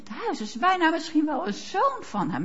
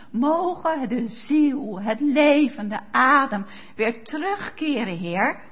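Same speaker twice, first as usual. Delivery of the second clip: slow prayer. Shown as a demonstration. Preacher models a one-line prayer.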